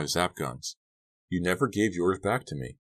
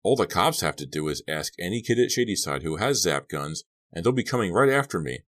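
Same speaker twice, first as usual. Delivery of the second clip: loud rant climbing higher; heated shouting; 5 semitones higher, 5 dB louder than usual. A narrator's reading. Boy fearing police will blame him, shouting heatedly. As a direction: build to an angry, high-pitched shout. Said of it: "shouting in Suki's face".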